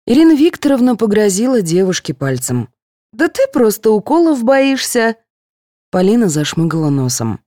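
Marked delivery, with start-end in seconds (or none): 3.1-5.1 higher, teasing nurse voice; lightly voiced teasing nurse. A narrator's reading. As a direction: catch her out gently.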